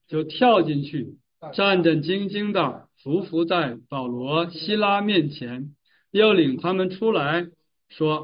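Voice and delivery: slow, measured Bible reading; scripture reading aloud. A narrator's reading. Preacher reads the jailer's story to the congregation, measured scripture reading. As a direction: read the verses out with deliberate weight.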